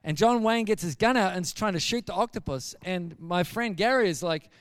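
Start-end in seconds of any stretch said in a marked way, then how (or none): none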